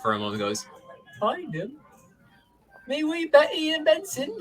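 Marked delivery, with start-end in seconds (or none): 1.2-4.3 high squeaky voice, suddenly hopeful; a tearful vole perking up. Acted. Vole voice, eyes clearing.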